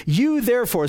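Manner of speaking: "You" stressed ahead of "therefore"; emphatic you. Retold or imitated. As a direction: put the weight on "You". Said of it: "So this emphatic you".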